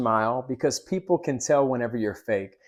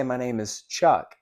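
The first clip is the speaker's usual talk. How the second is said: slow, firm "My name is Chuck" falling on "Chuck"; with authority. Shown as a demonstration. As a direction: state your name like you own the room. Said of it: "I'm saying it with authority".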